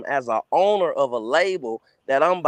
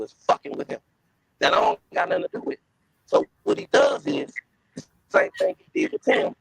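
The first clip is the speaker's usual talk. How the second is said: muffled. Real, not acted. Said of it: "You, you, you sound muffled".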